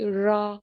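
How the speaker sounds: रॉ with the tongue lightly touching the palate; R sound demo. Shown as a demonstration. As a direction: say रॉ with a curled-back R. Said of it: "बहुत पूरा नहीं करती".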